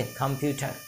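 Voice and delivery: कंप्यूटर with an aspirated kh, khampyutar. Shown as a demonstration. Teacher quizzing class, answering with aspirated kh. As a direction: start कंप्यूटर with a breathy kh. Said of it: "क्या बोलेंगे".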